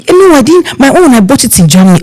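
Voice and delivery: high, boastful no I didn't; proud uncle. Retold or imitated. The uncle boasting about his Germany outfit, proud. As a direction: show off the outfit. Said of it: "Then you say".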